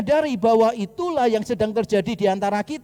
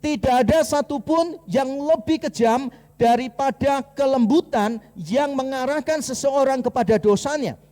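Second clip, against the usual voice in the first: solemn quotation; 3 semitones higher than usual. Acted. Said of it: "Bonhoeffer mengatakan demikian".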